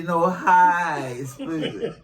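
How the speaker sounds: "highs" said with an H, as in "No highs"; mock mispronunciation. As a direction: imitate him saying "highs" for ice. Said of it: "He would say".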